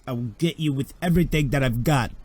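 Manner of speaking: a lightly voiced vow that swells up; rising threat. Laren to the player, a threat building up. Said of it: "Laren looks at you and goes".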